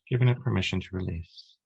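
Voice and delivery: calm, measured meditation voice with long pauses; unhurried, even-toned relaxation guide; guided meditation. Acted. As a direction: guide them gently through breath and body, leaving space between phrases.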